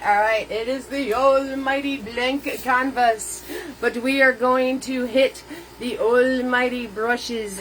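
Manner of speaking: light imitation of an old TV painting host, grandly announcing; a hint of a showman painter hyping the canvas; Bill Alexander voice. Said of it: "that's my Bill Alexander impersonation".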